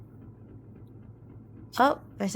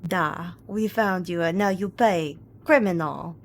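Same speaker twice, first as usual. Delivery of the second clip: menacing Russian captor; 3 dB louder than usual. Pretend. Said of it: "I cannot do a Russian accent, and I will not attempt to".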